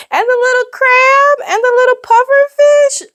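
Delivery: squeaky gush. Real, not acted. Gushing over sea animals page.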